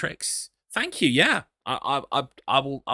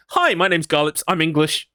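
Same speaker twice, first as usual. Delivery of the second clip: 1 dropping the Texan act; 3 semitones higher, 4 dB louder than usual. Acted. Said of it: "I'll be like".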